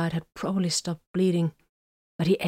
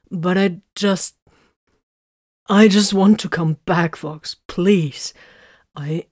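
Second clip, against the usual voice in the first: desperate pleading; 6 dB louder than usual. Acted. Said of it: "pushed on desperately".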